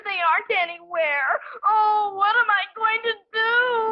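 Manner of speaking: a girl's hammed-up despair; tearful wail. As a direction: wail it like a melodramatic crisis. Girl despairs over lost skates.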